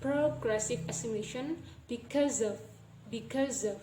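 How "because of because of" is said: "because of" linked as one word; "because of" said as be-cuz-uv; joined sounds. Shown as a demonstration. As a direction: run "because" straight into "of". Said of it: "The of sounds will be joined".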